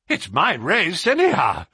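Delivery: high, excited exclamation; gasping relief. Acted. Colonel after his horse wins, mildly gasped. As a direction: let it out in relief. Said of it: "gasped the Colonel".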